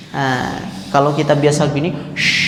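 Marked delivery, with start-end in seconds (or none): 2.1-2.4 "shh" thick and full; the usual thick "shh" as the wrong way. Shown as a demonstration. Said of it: "ini tebal jadinya". ("shh" tebal)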